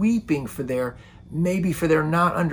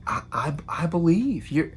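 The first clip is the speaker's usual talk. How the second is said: awed wonder; 4 semitones higher than usual. Retold or imitated. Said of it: "I can imagine she's just like".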